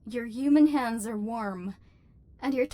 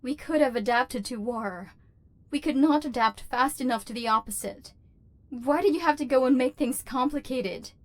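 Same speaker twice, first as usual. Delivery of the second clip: frustrated. Acted. Overlord rising in frustration.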